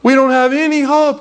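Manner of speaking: high, drawn-out wail of despair, put on; mock moaning. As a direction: imitate villagers lamenting in a high voice. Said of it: "they would just be weeping and moaning".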